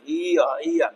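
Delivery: ईया as "ee" gliding into "ya"; ईया repeated as a teaching sound; diphthong demo. Shown as a demonstration. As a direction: isolate the glide in ईया. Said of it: "ये भी diphthong है भाई".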